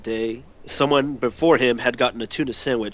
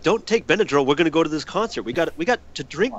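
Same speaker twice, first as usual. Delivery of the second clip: higher, urgent begging through a laugh; retold pleading; 5 semitones higher than usual. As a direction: plead with your buddy in mock desperation. Retelling pleading with friend, laughing.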